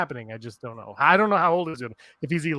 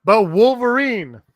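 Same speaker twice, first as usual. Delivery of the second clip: overacted death scene; 8 semitones higher, 7 dB louder, slower than usual. Mock dramatic cry.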